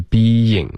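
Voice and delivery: BEING said slowly as bee-ying; two syllables. Shown as a demonstration. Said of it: "就变成一个音节了". (being 慢读成两个音节)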